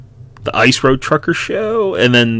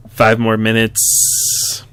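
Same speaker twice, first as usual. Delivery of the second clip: sleepy groggy mumble; 5 dB quieter, much slower than usual. Acted. Sleepy kid in bed.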